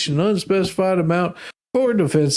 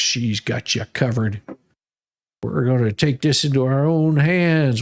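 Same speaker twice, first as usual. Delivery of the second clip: mocking the defendant. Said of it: "she had to say".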